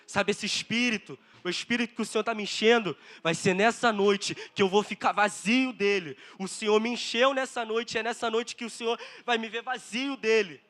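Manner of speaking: emphatic pulpit voice, punching key words; fervent sermon delivery; impassioned preaching. Real, not acted. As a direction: preach it with rising urgency. Preaches with raised force.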